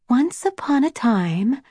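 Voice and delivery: lightly hushed, measured storytelling; storyteller's voice. A narrator's reading. Rose begins a bedtime tale for her sister, storyteller's voice. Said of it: "whispered in her best storyteller's voice".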